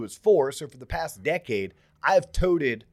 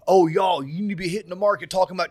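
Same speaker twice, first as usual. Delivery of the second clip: mocking hype voice; 3 semitones higher, 6 dB louder, faster than usual. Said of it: "I'm hearing".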